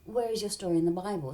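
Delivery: cool story bro, teasing; mock sarcastic retort. Mocking Lucifer to the TV, sarcastic. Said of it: "I'm like".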